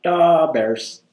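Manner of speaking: brief attempt at a Chicago accent. Shown as a demonstration. Student answers a request for an accent, Chicago accent. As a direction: try a stock Chicago accent catchphrase. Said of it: "Can you do a Chicago accent?".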